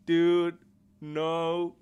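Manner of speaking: loud laughing dude; laughing protest. Real, not acted. Streamer cracks up at the line, loud and laughing. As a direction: burst out laughing through the word.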